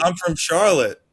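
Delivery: loud, high, drawn-out proud declaration; Jaire impression. Host quoting Jaire's hometown boast, loud mock proclamation. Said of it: "He said".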